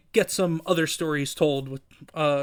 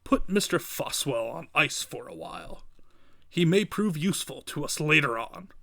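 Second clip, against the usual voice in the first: Kingpin giving orders. Acted.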